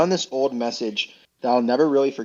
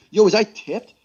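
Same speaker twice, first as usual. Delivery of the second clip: high, giddy disbelief; super excited; 8 semitones higher, slower than usual. Real, not acted. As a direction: gasp it out, thrilled and amazed. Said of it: "I got super excited".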